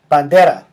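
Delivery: Bandera stressed on the de; stress on next-to-last syllable. Shown as a demonstration. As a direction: punch the middle syllable of Bandera. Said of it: "the stress is on the next to last syllable".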